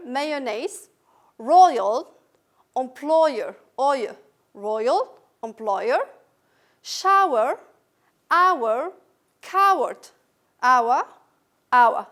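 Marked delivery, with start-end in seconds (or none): 1.4-12.1 royal, employer, shower, hour each said loud and drawn out; loud modelled pronunciation. Shown as a demonstration. Teacher modelling triphthong words for the class. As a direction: belt each word out as a model. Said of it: "So what do you hear?".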